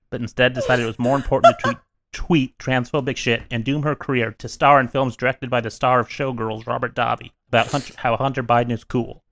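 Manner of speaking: a lightly solemn prepared statement read aloud; mock formal statement. Opening the podcast with a mock suspension statement, lightly solemn. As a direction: read it like a grave apology, barely playing it up.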